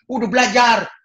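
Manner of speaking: high, loud snappy retort; child's retort. Retold or imitated. Young preacher snapping at his brother to study. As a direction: snap back like a kid. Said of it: "kata saya".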